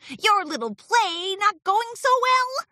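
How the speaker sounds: high, smug taunting question; satisfied smirk. A narrator's reading. Martingale to Discord about his failing play, smugly. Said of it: "asked with a satisfied smirk".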